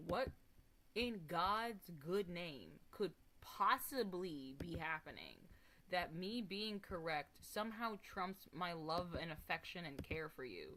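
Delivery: slow, drawn-out disbelief; slow incredulous. Real, not acted. Streamer ranting about friend fights, slow and incredulous. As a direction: stretch it out in disbelief.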